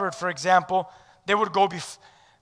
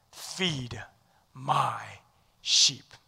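soft; 9 semitones lower, 10 dB quieter, much slower than usual. Acted. Jesus quoted very softly.

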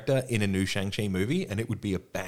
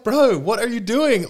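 much higher, louder and slow, a squealing outraged priest; indignant Hell Priest; 13 semitones higher, 8 dB louder, slower than usual. Retold or imitated. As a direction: squeal the protest like an offended clerk. Voicing the Hell Priest's protest.

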